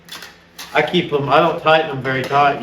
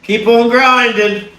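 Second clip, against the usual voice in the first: higher, slow, drawn-out catchphrase; 8 semitones higher, 5 dB louder, slower than usual. Acted. Quoting a saying to the vlog viewers, drawn out and high. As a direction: sing out the slogan, raised and louder. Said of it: "You know what they say".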